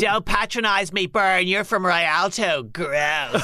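low, slow and disdainful; snobby contempt. Acted. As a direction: sneer down at him. Kid insults host.

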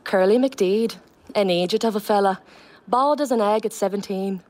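a light Irish Donegal lilt on the play line; Donegal accent. Shown as a demonstration. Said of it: "I'll just do a line from the play".

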